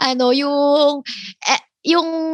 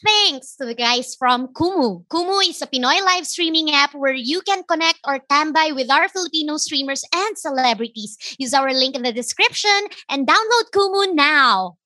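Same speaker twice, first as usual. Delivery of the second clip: scripted, upbeat host read; sponsor ad read; 2 semitones higher than usual. Acted. Host thanking the streaming app sponsor, ad read.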